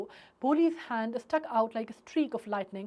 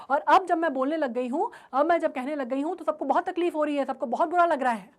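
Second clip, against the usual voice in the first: angry retort. Retold or imitated. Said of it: "उसको बहुत ज़्यादा गुस्सा आ जाता है".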